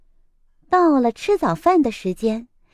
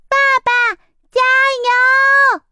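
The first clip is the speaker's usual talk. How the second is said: put-on high, eager child's cheer; root for daddy like a little fan; cheering chick; 13 semitones higher, 5 dB louder, much faster than usual. A narrator's reading. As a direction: chick cheering dad climbing the tree. Cheering dad up the tree.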